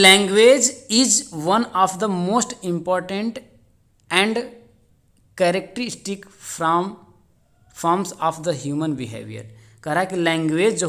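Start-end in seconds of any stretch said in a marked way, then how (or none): 0.0-9.4 slow dictation. Shown as a demonstration. Teacher dictates exam question slowly.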